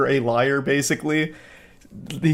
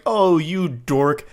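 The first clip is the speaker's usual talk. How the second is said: slow, sing-song teasing, much higher toward the end; hammed-up dweeby flirt voice rising high; mock playful insult; 6 semitones higher, slower than usual. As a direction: drag out each insult like a smug bully. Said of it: "the playful insults kind of thing".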